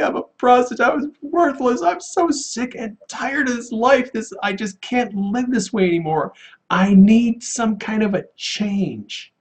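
a hint of a desperate woman at the end of her rope; distressed woman. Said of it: "And she's like".

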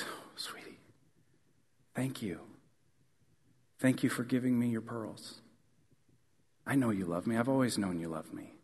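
father fighting back tears, barely voiced; tearful father. Father thanks his little daughter through tears, choked whisper. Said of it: "And now he's crying".

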